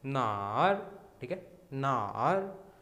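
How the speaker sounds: नार with a dipping third tone, slow. Shown as a demonstration. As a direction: dip and lift नार. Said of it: "third tone के साथ". (नार third tone में)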